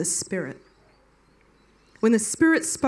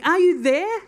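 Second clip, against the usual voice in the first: higher, louder pleading call to God; crying out; 8 semitones higher, 5 dB louder than usual. Retold or imitated. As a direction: call out into the dark, asking. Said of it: "crying out to a God he didn't know and saying".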